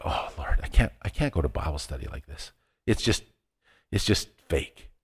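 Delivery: low, quiet, weary admission; dejected self-quote. Retold or imitated. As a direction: recall a downhearted plea under your breath. Retelling his downcast inner plea.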